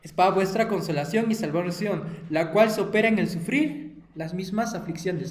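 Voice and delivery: loud, emphatic Bible reading; preacher reading scripture with force. Acted. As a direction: proclaim the verse to the children. Reads Bible verse aloud.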